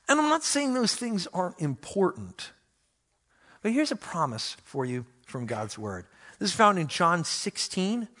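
normal talking voice

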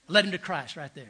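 a chuckle on the punchline; delighted punchline, half laughing; laughing through it. Real, not acted. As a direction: say it while still laughing. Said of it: "punchline with laughter".

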